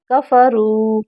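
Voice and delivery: कफरू with a long रू at the end; कफरू ending on a drawn-out roo. Shown as a demonstration. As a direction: hold the रू in कफरू. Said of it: "रू लंबा होगा".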